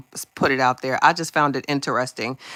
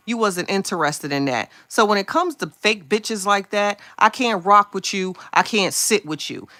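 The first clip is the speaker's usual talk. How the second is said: heated rant; 4 semitones higher than usual. Retold or imitated. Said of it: "I said".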